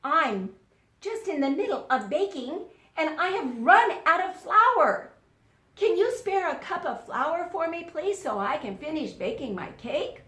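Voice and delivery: sly wolf. Acted. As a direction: trick them with a sweet request. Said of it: "and said".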